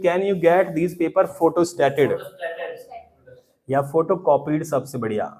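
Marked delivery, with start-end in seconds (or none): 0.0-2.2 very slow, soft model English sentence. Shown as a demonstration. Teacher slowly modelling a sentence for students to copy. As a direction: spell it out slowly for the class to repeat. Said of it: "चलो, so बोलिए".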